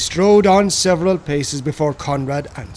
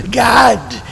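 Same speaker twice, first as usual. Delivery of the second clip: loud, higher shouted oath; cried out; 5 semitones higher, 6 dB louder than usual. A narrator's reading. Grimlin cries out to Conrad, a sudden loud shout. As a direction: cry it out suddenly. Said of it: "he cried in a voice and accent strange to me".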